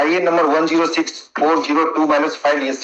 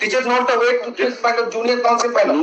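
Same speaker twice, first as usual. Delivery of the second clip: raised pitch, heated protest; 5 semitones higher than usual. Real, not acted. Counsel protesting to the judge, voice raised. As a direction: push back hard, pitch climbing. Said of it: "Please don't raise your voice".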